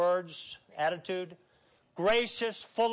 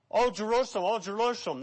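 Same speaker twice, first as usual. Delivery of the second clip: passionate lament; faster than usual. Retold or imitated. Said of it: "That's intense".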